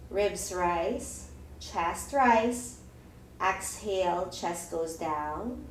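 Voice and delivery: calmly pace each breath; guided breathing cues. Acted. Guides slow belly breathing.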